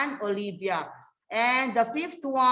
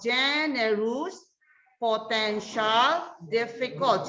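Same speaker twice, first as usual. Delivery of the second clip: slow listing. Shown as a demonstration. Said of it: "the adjectives are three syllables".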